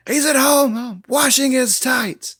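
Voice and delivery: high mocking Joker punchline, slowing down; Joker impression. Joker mocks Batman to the crowd, a high sneer. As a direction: sneer the joke at the hero.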